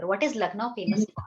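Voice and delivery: slow model question. Shown as a demonstration. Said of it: "It किसी जगह के लिए यहाँ पर".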